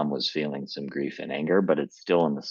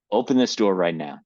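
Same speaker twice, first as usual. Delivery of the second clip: demanding shout; 3 semitones higher, 5 dB louder than usual. Acted. Dad pounding locked door.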